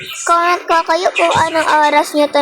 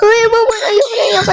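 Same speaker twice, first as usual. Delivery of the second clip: scared shout; 6 semitones higher, much faster than usual. Real, not acted. Scared by game monster.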